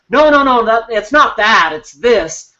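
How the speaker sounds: quick defensive "no, no, no"; defensive protest. Retold or imitated. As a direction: brush the feedback off, talking over it. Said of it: "you tend to come back with".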